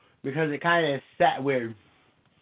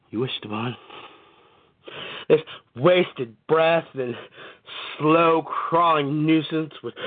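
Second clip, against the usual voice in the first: poetry reading. Acted. Poet reading his own poem to stream listeners, dramatic spoken word. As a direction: read each image like a dark spoken-word poem.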